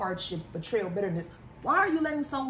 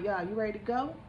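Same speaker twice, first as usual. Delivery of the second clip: teasing Grim Reaper. Retold or imitated. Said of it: "the Grim Reapers just keep inching".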